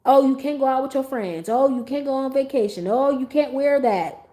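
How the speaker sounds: imitated nagging critics; mocking naysayers. Critics telling a mom what she can't do, mocking. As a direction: sing out each mock objection.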